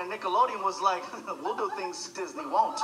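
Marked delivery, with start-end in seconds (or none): 1.4-2.8 sly seducer. Retold or imitated. Nickelodeon voiced as tempting rival.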